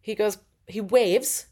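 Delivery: usual speaking voice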